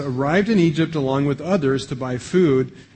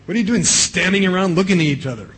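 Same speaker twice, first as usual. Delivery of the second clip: quick, higher, exasperated scolding of idle sons; a father fed up with his staring boys, a little fast; 5 semitones higher, 3 dB louder, faster than usual. Retold or imitated.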